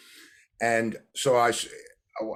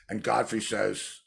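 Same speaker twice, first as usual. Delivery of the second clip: normal talking voice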